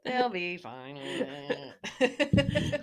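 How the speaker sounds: drawn-out words through laughter; laughing. Real, not acted. Co-host shrugging off a long episode, laughing. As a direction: laugh slowly through the reassurance.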